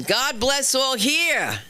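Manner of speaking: slow, high, drawn-out quote of the movie line; quoting The Quiet Man. Retold or imitated. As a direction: deliver it like a famous film line, lightly mimicked. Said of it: "The immortal words of, uh, the quiet man".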